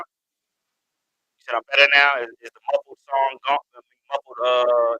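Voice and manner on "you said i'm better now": very slow, stretched question; drawn out. Real, not acted. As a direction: draw every word out slowly.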